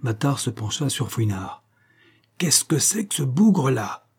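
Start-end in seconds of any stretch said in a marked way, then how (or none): 2.4-4.1 raised, muttered growl through the teeth. Acted. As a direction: growl it between clenched teeth. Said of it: "gronda-t-il entre ses dents". (grondé entre ses dents)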